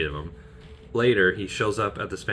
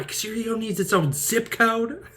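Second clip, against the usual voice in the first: lightly voiced sarcastic Lana, higher; a sarcastic jab in Lana's voice; quoting Lana. Host quoting Lana's jab at a big ego, sarcastic. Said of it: "as Lana would say".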